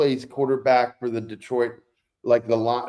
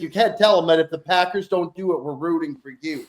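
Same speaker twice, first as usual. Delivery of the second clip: higher-pitched mock exasperation; retold protest to mom; 5 semitones higher than usual. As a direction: replay scolding your mom, half amused. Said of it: "I'm like".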